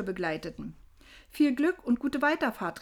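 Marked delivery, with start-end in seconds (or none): 1.3-2.8 higher, lightly called farewell; fröhliches Zurufen. A narrator's reading. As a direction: call good wishes after a traveller. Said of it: "riefen sie". (leicht gerufener Abschiedsgruß)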